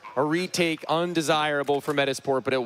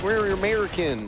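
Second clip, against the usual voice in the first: mock Swedish accent; 5 semitones higher than usual. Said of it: "start saying things like".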